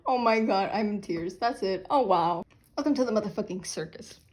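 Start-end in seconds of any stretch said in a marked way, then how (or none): 0.1-1.9 crying with laughter. Real, not acted. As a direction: stretch it out in laughing despair. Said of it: "I am crying".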